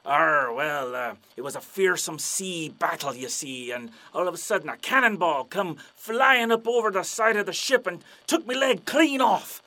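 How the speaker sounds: hammed-up pirate storyteller. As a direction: growl it out, swelling to the climax. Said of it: "And the pirate's like".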